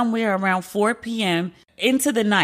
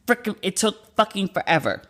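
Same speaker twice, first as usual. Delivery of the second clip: a little tipsy, loose words. Real, not acted. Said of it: "if I sound a little tipsy right now".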